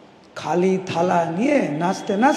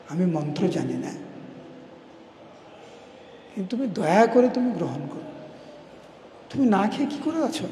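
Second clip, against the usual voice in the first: tearful pleading; 6 dB quieter, faster than usual. Acted. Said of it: "মধু ক্রন্দন করতে লাগে".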